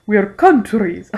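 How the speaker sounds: slow mock Russian accent; drawn-out put-on Russian voice. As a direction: intone it with a hammy Russian accent. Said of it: "I do an awesome Russian accent".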